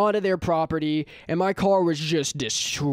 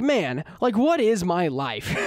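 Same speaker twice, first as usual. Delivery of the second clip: laughing; slower than usual. Retold or imitated. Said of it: "I just start laughing".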